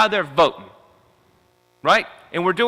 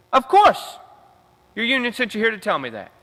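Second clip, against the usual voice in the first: dismissive staffer; 5 semitones higher than usual. Retold or imitated. Staffer dismissing union member.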